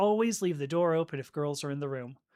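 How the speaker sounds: usual speaking voice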